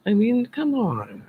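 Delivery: slow whispered come on; exasperated whisper. Real, not acted. Vlogger sighing at fake crowd reactions in a whisper. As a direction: breathe it out in disbelief. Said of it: "whispered aside".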